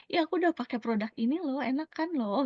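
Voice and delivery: acted eager boast. Telling friends about the product, eager and quick. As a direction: rush it out proudly.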